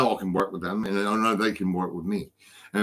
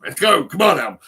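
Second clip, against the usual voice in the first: louder and higher, rallying the crew; retold call to hurry; 7 semitones higher, 8 dB louder than usual. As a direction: drive the team on, half-shouting. Urging the crew to move pianos.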